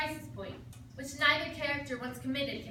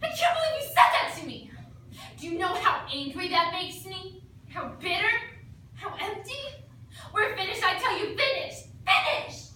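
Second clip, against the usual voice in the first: mock furious rant, higher and louder at the end; hammed-up angry breakup speech; emotional outburst; 3 semitones higher, 3 dB louder than usual. Actor hurls a mock-furious breakup speech at the partner. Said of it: "Any good dramatic duet requires an emotional outburst".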